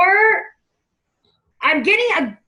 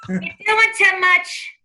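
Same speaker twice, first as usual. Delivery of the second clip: put-on slow, raised New York accent; 4 semitones higher, much slower than usual. Medium relaying grandma's scolding of client, New York accent. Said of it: "I wanna talk with the accent".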